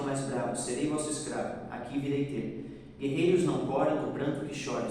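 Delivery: measured, rhythmic recitation of a poem. Shown as a demonstration. Teacher reading a poem to the class, recited. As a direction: recite the verses with a steady beat.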